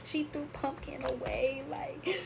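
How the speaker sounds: slow, high wail of complaint, lightly acted; retold upset. Telling her sister grandma threw the bear away, retold upset. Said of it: "I was so sad".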